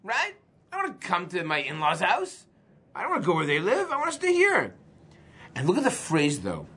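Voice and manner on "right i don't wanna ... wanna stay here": whiny bride. Retold or imitated. Bride voiced refusing to leave home.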